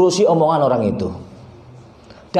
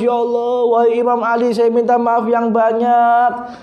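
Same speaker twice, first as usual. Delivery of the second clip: mock-weeping apology, pitched high throughout; acted wail of remorse, little real sobbing; imitated tearful pleading; 5 semitones higher than usual. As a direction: plead like a repentant man, voice raised in pitch. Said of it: "dia menyadari dan nangis".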